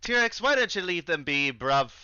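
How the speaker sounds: Cockney with a tacked-on "bruv"; attempted Cockney accent. Game master as a dockhand telling T-Rex off, attempted Cockney. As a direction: lean on bruv to sell the Cockney. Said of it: "cheat code is just to say bruv".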